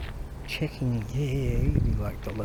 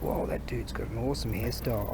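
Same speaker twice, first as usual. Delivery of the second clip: awed whisper; 5 semitones lower, 9 dB quieter than usual. Retold or imitated. Recalling first seeing the hairstyle.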